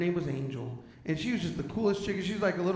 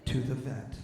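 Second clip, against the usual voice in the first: sweetly; 6 dB quieter than usual. Retold or imitated. Wife gently telling husband they won't pay for the vet, sweet soft voice. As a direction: explain it gently like to a child. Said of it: "very sweetly".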